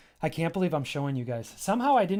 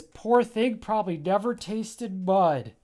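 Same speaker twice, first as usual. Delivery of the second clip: pillow creature voice; 6 semitones higher, 6 dB louder, slower than usual. Acted. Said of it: "And says".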